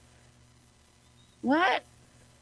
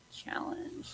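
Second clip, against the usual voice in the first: breathy whispered challenge; 7 dB quieter than usual. Acted. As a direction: whisper it for drama. Dramatic whispered declaration.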